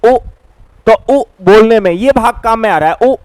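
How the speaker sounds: उ rounded and held; vowel demo. Shown as a demonstration. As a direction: sound out उ to show the back vowel. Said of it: "इनका उच्चारण करोगे उ". (उ का स्पष्ट प्रदर्शन)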